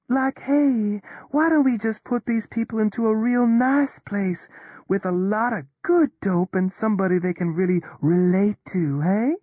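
mock stoned drawl. Charmian mocking a stoned shrink to Toby, mellow drawl. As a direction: parody a stoned Berkeley weirdo, mellow and lazy. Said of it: "her drawl sank into parody stoned mellowness".

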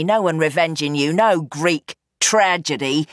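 put-on firm young woman giving orders; Roxy, commanding. Daughter tells her father he is retiring, firm and commanding. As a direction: lay down the terms, no argument. Roxy takes over, voiced higher.

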